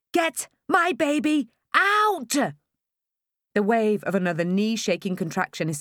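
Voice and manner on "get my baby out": high, slow, loud plea; mother in labour begging them to get her baby out; desperate yell. A narrator's reading. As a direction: drag the words out in desperation.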